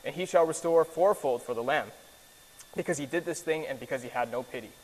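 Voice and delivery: measured, solemn Bible reading; scripture reading. Acted. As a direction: read the verse with gravity. Reads scripture aloud.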